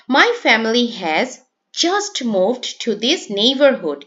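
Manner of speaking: slow model reading with weight on "just"; stress on JUST. Shown as a demonstration. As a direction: lean on "just" after a short pause. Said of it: "এখানে justটা হলো stressed word". ("just" শব্দে জোর দিয়ে ধীরে পড়া)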